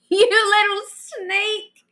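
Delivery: high, slow exclamation of relief; relieved exclamation. Acted. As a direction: cry it out, half laughing with relief. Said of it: "she exclaimed".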